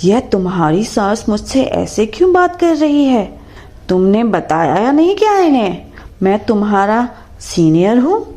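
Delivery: flustered boss, mildly rattled and hurrying; scared. Acted. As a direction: senior asking Tina why her mother-in-law scolds him, nervously. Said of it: "Kamlesh डरते हुए टीना से कहता है".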